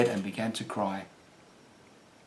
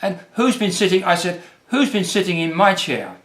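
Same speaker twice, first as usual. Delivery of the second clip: higher, small squeaky question; squeak; 6 semitones higher than usual. A narrator's reading. Baby Bear seeing his chair, higher squeak. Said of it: "squeaked Baby Bear".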